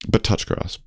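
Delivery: touch grass breathed out softly; a soft, voiceless jab; breathed aside. Real, not acted. Telling noisy fans, breathed softly, touch grass. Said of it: "exasperated aside".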